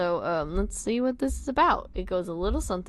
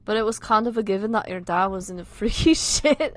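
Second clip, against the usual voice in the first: wandering, amateur Scouse; all-over-the-place accent; 5 dB louder than usual. Acted. Friend describing dad's photo, wandering Liverpool accent. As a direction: Liverpool accent that keeps slipping. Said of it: "My accent's going everywhere".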